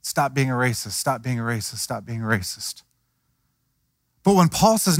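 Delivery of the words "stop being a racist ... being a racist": nagging repetition that fades from plain to much softer; repeated nagging fading. Retold or imitated. Preacher mimics law-only nagging, fading softer. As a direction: say it again and again, dropping away each time. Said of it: "he could have said".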